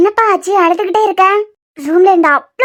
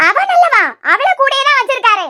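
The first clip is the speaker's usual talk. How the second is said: indignant outburst; 6 semitones higher than usual. Acted. Friend rants to Jessica about Arjun, high and heated. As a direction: spit it out in disbelief.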